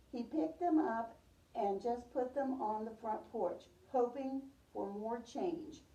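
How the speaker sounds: storybook read-aloud for a class; gentle read-aloud voice; reading to children. Acted. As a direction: tell it like a picture book to little kids. Teacher reads picture book aloud.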